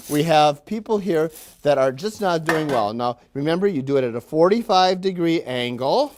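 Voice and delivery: a lightly hammed-up, cheery manager lecturing his workers; mock factory boss. Factory manager greeting his willing workers, lightly hammed-up boss voice. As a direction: play the upbeat boss who patronises the staff. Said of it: "I might supply some of the dialogue".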